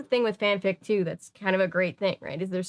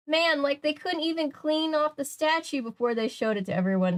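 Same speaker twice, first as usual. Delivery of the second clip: Shaggy voice; 7 semitones higher than usual. A narrator's reading. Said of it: "Shaggy asked".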